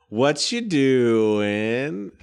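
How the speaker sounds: very slow, stretched friendly question; lingering in-character hello; drawn-out question. Acted. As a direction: draw each word out long. Player's character greets a dwarf.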